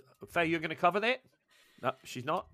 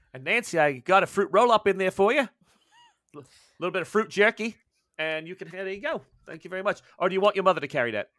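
put-on higher, louder, sing-song fawning to a child; higher, louder shopkeeper doting on the child; 4 semitones higher, 4 dB louder than usual. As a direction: coo at the kid like an overfriendly shopkeeper. Shopkeeper fawns over the child.

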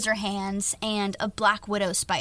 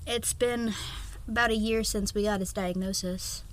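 snotty crying; 5 dB quieter than usual. Real, not acted. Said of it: "I'm crying".

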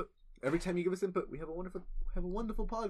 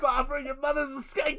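grumpy Bronx husband; 7 semitones higher than usual. Acted. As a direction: insult her mother with a snarl. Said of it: "old couple arguing in the Bronx".

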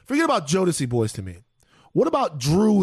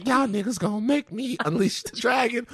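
hammed-up imitation of a singer's threat; mock threat from a singer; 5 semitones higher than usual. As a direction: lightly voice the singer's warning. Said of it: "if you hear me say".

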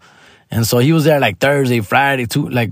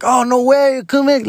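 Joy Coy voice; 12 semitones higher than usual. Retold or imitated. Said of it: "Joy Coy reacting".

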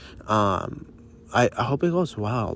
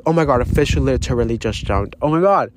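startled; 4 dB louder than usual. Real, not acted. A fish jumps mid-talk.

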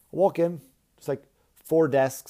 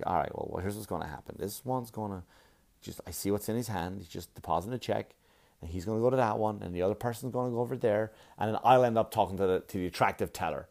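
low, soft thinking aloud; inner scheming; 3 semitones lower, 5 dB quieter than usual. Acted. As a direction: calculate it quietly to yourself. Inner scheming while waiting in line.

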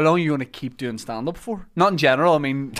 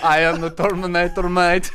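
unplaceable, badly faked Terminator accent; botched Terminator accent. Comic showing friends a Terminator line, botched accent. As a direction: have a poor go at the Terminator's accent. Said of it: "Where is that accent?".

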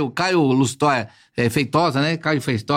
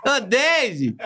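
laughing call; 6 semitones higher than usual. Real, not acted. Joking call to Deide.

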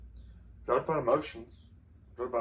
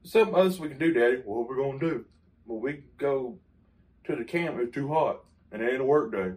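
imitating dad; 2 semitones lower than usual. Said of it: "That's how my daddy talked".

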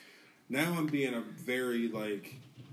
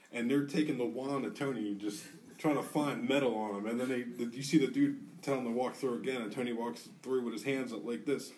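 ordinary talk, nothing marked

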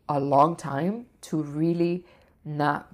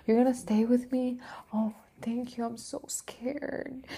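put-on high, small whimpering little-girl voice, fading to a whisper; a frightened child clinging to her helper; scared little girl; 9 semitones higher, 5 dB quieter than usual. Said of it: "like a little girl".

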